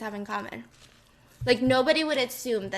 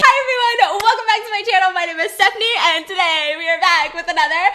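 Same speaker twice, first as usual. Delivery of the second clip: YouTuber intro voice; 5 semitones higher, 9 dB louder than usual. Acted.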